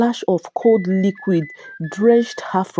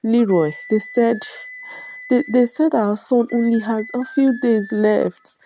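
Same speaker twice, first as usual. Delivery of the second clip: sobbing; 5 semitones higher than usual. Acted. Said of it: "barely get the words out between her sobs".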